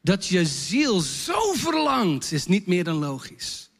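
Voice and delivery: gentle encouraging words to a confessor; reassuring pastor. Retold or imitated. Pastor comforting a man who confessed, gently reassuring. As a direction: soften down and reassure. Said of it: "Ik zeg".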